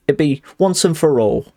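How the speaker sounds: put-on Cockney, slightly northern; Cockney accent. Shown as a demonstration. Streamer correcting the line's ending, Cockney accent. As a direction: have a go at Cockney. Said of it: "my Cockney accent".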